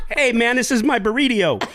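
laughing. Real, not acted. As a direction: talk while laughing. Laughing through burrito line.

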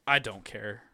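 low, blunt brush-off. Retold or imitated. Captain answering the curious scientist, blunt. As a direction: quote the captain's line as a blunt dismissal. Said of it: "one of the most blunt".

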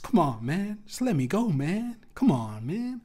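high, whiny mock Biden pleading; Joe Biden impression. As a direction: whine it like Joe Biden begging to be let go. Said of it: "he looked like Joe Biden".

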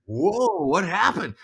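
high-pitched mock astonishment; retold surprise. Son at the front door, surprised high question. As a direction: act out a taken-aback son. Acted surprise at mom's news.

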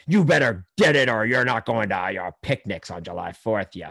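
hammed-up threat, pushed hard at the start; threatening, coercive. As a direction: imitate a bullying ultimatum. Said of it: "it sounds very threatening and coercive".

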